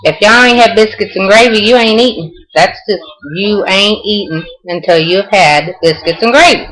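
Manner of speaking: playful Southern talk, mostly lifted in pitch; Southern accent. Shown as a demonstration. Showing viewers how we talk in the South, Southern accent. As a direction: lay on the Southern accent for show. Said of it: "that's how we talk in the South".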